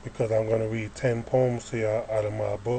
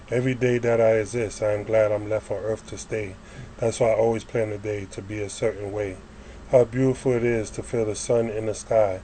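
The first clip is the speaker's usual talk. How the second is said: measured spoken-word reading, phrase by phrase; poem recitation. Acted. Poet reads a praise poem to listeners, reciting. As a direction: recite it in steady rhymed lines.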